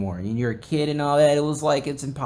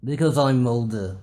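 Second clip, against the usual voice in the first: put-on smug older voice; slower than usual. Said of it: "Be like".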